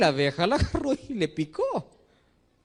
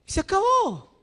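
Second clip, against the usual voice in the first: firm no; slower than usual. Acted. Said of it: "si el padre es firme".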